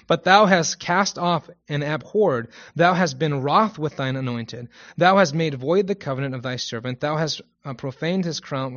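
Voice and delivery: formal Bible reading; scripture reading. Acted. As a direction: read the verse out to a congregation. Reads a Psalm aloud.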